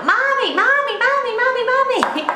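put-on high, loud child's whine of mommy over and over; children calling mommy. Mum imitating her children calling her at dinnertime, high whiny child voice.

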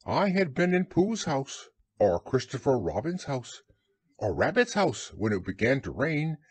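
a hint of lonely little Piglet. Piglet voice held.

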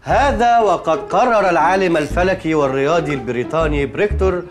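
formal Classical Arabic read out slowly for typing; reading a formal text aloud for her to type; slow dictation. Acted. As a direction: dictate each phrase deliberately.

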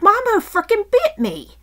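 high, loud re-enacted yell; loud complaint to someone far away; yelling over. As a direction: call it across a yard, indignant. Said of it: "so I yell over to him".

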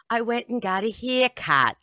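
a deliberately botched Australian accent; bad Australian accent. Shown as a demonstration. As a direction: attempt an Australian accent and miss it. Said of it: "is Australian".

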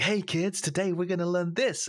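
high-pitched, eager teacher greeting a class; chirpy mock teacher, pitched well up; enthusiastic AI teacher. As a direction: put on a keen, sing-out classroom voice. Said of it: "will be enthusiastic".

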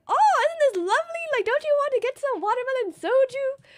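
gushing pitch. Retold or imitated. Urging friends to the restaurant.

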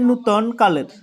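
"নূতন কালের" with noo-ton, oo first; correct pronunciation. Shown as a demonstration. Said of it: "উচ্চারণটা এভাবে হবে যে".

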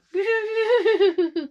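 high, loud demo laugh; demonstrated laugh. Shown as a demonstration. Vlogger showing different sorts of laughing, high laugh. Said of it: "different sort of laughing".

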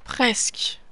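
"Presque" breathed out in a soft whisper, falling. Real, not acted. Gamer alone at the screen, whispering to himself. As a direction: let it go under your breath. Repeats it after the miss.

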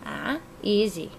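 slow soothing coo; calm the bird down gently. Real, not acted.

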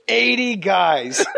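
slow, laughing stress on eighty; slow laughing delivery; laughing emphasis. Real, not acted. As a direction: savor it, cracking up. Savoring the punchline.

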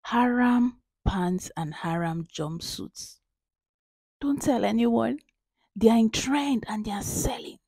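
hushed secret aside to fans; whisper. Real, not acted. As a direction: softly share a secret. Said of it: "I have to whisper this one".

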